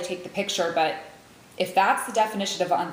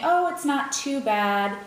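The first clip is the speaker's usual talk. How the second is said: slow, higher, imitated half-hearted reassurance; hedging reassurance; 5 semitones higher, slower than usual. Friends downplaying the mammogram to her, hedging. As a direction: mimic someone holding back the real story. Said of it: "didn't wanna give me the real story".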